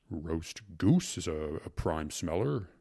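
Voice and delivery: slow, mildly laboured justice; a touch of heavy-breathing appetite; breathing heavily. Acted. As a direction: savor it slowly with heavy breath. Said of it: "breathing heavily".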